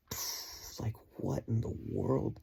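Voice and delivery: stunned, half laughing at the coincidence; amazed disbelief. Retold or imitated. Hearing her mom prayed the same words, amazed disbelief. Hears mom's matching prayer.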